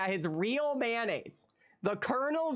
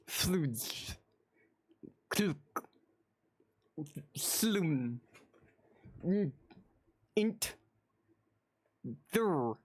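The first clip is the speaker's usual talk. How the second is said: reading without vowels; 2 semitones lower, much slower than usual. Acted. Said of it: "I didn't know you could speak Klingon".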